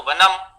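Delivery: वनम said as banam. Shown as a demonstration. Teacher showing Utkal students' fault, वनम as banam. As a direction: start वनम with 'b' in place of 'v'. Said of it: "वकार को बकार की तरह उच्चारण".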